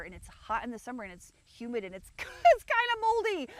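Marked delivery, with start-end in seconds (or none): 2.2-3.5 high, laughing through the words. Real, not acted. To viewers, about her moldy old house, laughing. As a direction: laugh it off, slowly.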